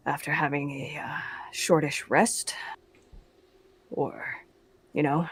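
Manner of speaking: whispering. Real, not acted. Party quietly plans in danger.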